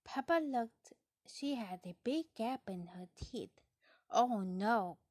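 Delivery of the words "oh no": dismayed cry. Acted. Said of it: "Peppa cried".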